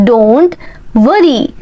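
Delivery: word by word for learners; slow chunked drill. Shown as a demonstration. Teacher drilling learners, slow chunked repeat.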